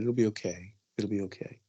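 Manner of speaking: put-on soft and fading, soothing her child; a mother's hushed reassurance; tender reassurance. Mother comforting her son.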